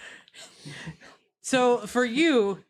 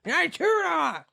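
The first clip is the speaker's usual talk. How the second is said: gruff thug, quicker and higher; mildly higher bandit growl; Bandana Herbert's voice; 6 semitones higher than usual. Acted. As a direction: snarl it like a stubborn thief. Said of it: "he's like".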